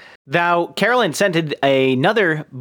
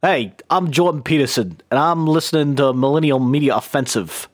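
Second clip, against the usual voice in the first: Jordan Peterson impression; 4 semitones lower than usual. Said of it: "I'll try it a different way".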